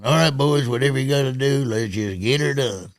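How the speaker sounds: sign-off catchphrase. Shown as a demonstration. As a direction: demo of a hearty radio sign-off. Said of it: "I would sign off with".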